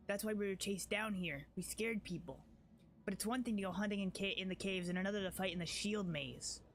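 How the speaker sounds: lightly voiced fierce tribeswoman; character voice. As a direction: read it as a proud, wary warrior. Voicing Wenduag's dialogue.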